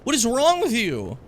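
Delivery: high, slow disbelieving anger; appalled outrage. Real, not acted. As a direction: demand how he could say that. Outraged at callous comment.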